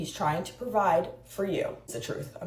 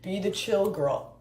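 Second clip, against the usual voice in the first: mocking red pill man. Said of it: "red pill men who say".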